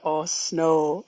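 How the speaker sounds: a hint of Bob and Doug Canadian accent; Canadian brothers. Caller imitating the comedy brothers to host, light Canadian accent. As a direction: lightly put on a Canadian "snow". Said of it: "you sound kinda like them and they're like".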